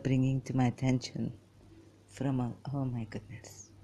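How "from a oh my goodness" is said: whisper. Real, not acted. Aside while reading Wikipedia.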